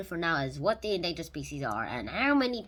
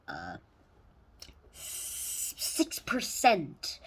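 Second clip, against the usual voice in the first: breathy whisper, slowed right down; slow whispered reveal of the figure; 3 semitones lower, much slower than usual. Acted. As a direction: drop to a secret whisper. Dramatic whispered aside.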